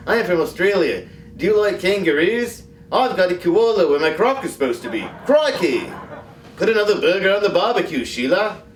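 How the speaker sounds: broad mock Aussie, "Crikey!" popped way up with a laugh; Australian accent. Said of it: "I'm from Australia".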